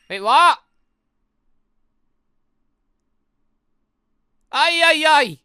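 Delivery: high, loud panicked cries at the screen; alarmed shouts. Real, not acted. Gamer shouting at the screen in panic. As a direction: shout in alarm at what the game did. Reacting loudly to a game scene.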